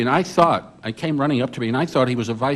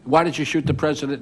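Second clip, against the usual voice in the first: higher-pitched retold yelling, no real volume; mock reporters yelling; 4 semitones higher than usual. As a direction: fire questions like a press pack, half-voiced. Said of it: "everybody yells at him".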